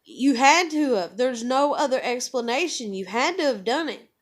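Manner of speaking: mild mock angry mom; retold angry insistence. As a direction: pound home the accusation. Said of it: "I'm mad now".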